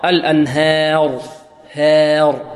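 الأنهار with the a leaning toward e; slight e-tilt after ha; imala again. Retold or imitated. Teacher mimics the wrong imala. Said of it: "إمالة الهاء أو فتحة الهاء خطأ".

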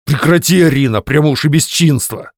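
husband bristling at his wife's words; offended flare-up. Acted. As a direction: flare up, hurt. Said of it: "обиженно вспылил Твёрдышев".

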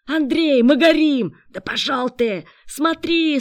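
high, loud fire alarm; urgent high-pitched shouts; alarmed shouting. A narrator's reading. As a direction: yell a panicked warning.

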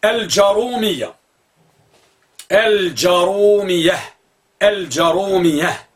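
الجرومية said slowly as Al-jarroomiyya, no hamza; teacher repeats the word slowly; repeated slow demo. Shown as a demonstration. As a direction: drag out الجرومية with a stressed rr. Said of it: "النوع الرابع".

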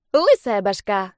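teasing dragon. Acted.

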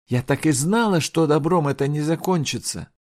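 shrill, high and loud accusation; fierce outcry. Acted. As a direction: cry it out with bitterness. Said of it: "выкрикнула с ожесточением".

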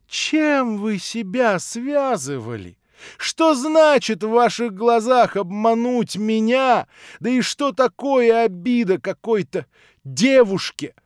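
bitter indignation. Acted. Natasha throwing the prince's reasoning back, bitter scorn. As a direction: fling his logic back at him.

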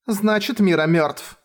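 plain reading voice

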